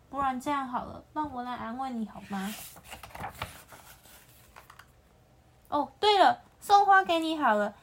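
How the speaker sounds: lightly voiced lion, eager to please; coaxing lion. The lion trying to comfort the antelope, eager coaxing.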